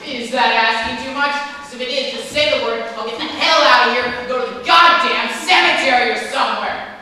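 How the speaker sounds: loud furious rant; angry shouting. Acted. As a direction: yell it all out in anger. Stephen's angry tirade.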